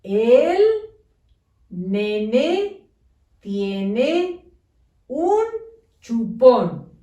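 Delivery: each word separated by a pause; slow dictation, one word at a time; spaced words. Shown as a demonstration. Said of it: "Debe de decir".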